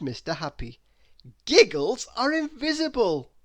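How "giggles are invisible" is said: higher and louder, teasing; playful. A narrator's reading. Mister Happy explains to Miss Giggles, playful. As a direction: let her in on the secret.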